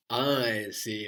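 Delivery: "I" drawn out and emphasised, then "see"; emphatic I. Shown as a demonstration. Teacher corrects learner to the emphatic form, stressing "I". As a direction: lean on "I" in "I see". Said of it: "with an emphatic".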